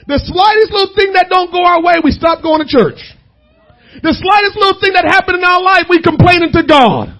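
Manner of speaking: mildly heightened sermon delivery; insistent preacher's exhortation. Real, not acted. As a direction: press the point home from the pulpit. Preaches with raised voice.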